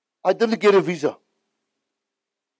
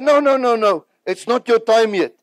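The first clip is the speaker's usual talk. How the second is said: quoting Reinhard refusing; 5 semitones higher, 4 dB louder than usual. Retold or imitated.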